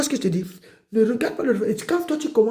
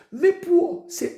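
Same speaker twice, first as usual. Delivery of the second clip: higher, louder, still very slow; building preaching call; 9 semitones higher, 4 dB louder, much slower than usual. Acted. Preacher rousing the congregation, louder and slow. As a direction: push the call bigger each time.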